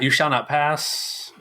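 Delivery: Gandalf. Retold or imitated. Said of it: "Gandalf says".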